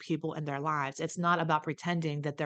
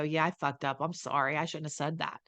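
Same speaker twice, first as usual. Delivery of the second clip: put-on sincere apology to a child; 3 dB quieter than usual. Shown as a demonstration. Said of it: "your kid wants you to do is go".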